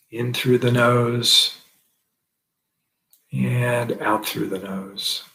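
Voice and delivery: slow, measured meditation cues; guided breathing meditation. Acted. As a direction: guide each breath slowly, drawing out the words. Leads a breathing practice.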